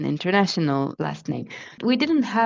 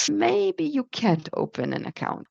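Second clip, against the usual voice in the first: higher, lightly acted polite clerk voice; quoting the bank clerk; 7 semitones higher than usual. Retelling the Japanese bank clerk refusing her, lightly acted polite clerk voice. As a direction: mimic the clerk's polite non-answer.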